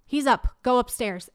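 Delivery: snapping at her son. Retold or imitated. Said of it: "in the moment, I'm like".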